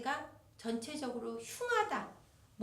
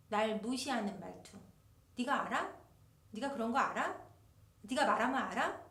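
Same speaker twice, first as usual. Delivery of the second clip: dismissive tone. Retold or imitated. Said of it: "그게 어떤 말투냐라고 물어보면".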